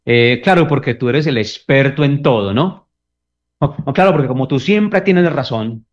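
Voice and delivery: sarcastic reply to a partner's opinion. Retold or imitated. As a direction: belittle their opinion with irony. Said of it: "una manera de despreciar".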